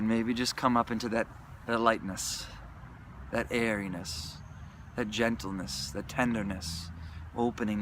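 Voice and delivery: soft and tender; gentle. Real, not acted. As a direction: ease into it tenderly.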